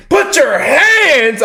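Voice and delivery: slow, high, loud barked command; hammed-up slow arrest command; mock police order. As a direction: play a cop ordering an arrest. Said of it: "with a little bass in my voice".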